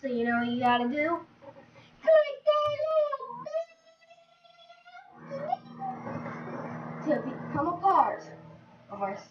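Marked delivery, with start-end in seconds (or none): 2.0-7.1 squeaky high. Pretend. Urging viewers to click bell.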